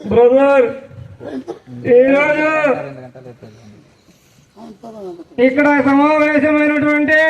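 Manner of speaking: slow, deliberate politician's speech, lightly imitated; a light take on a chief minister giving a stage speech, pausing a lot; Chandrababu Naidu impression. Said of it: "Nara Chandrababu Naidu గారు మాట్లాడితే ఎలా ఉంటుందో". (చంద్రబాబు నాయుడు గారిలా నెమ్మదిగా ఆగి ఆగి ప్రసంగం)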